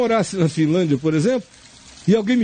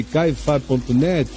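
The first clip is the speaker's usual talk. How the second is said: dictating slowly; 7 semitones lower, slower than usual. Shown as a demonstration. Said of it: "Anote aí".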